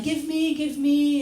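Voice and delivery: high mock whine; whiny beggar. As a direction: plead like a greedy crowd. Voicing needy people.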